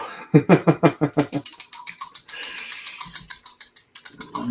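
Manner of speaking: high airy laugh; breathy laugh. Real, not acted. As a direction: let out an unvoiced laugh. Laughing at a chat message.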